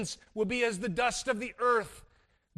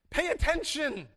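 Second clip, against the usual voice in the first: higher and louder, very slow, each phrase spaced; urgent call; 5 semitones higher, 4 dB louder, slower than usual. Pretend. God calling out to pay attention, slow urgent call. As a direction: call them to look, slowly and urgently. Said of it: "It's like, "Look at this".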